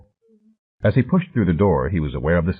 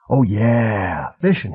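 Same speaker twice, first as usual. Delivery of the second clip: sarcastic disbelief; 2 semitones higher, much slower than usual. A narrator's reading. Harvard man scoffing at Flint's fishing excuse, sarcastic. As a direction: scoff at the lie. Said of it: "soft, almost feminine voice".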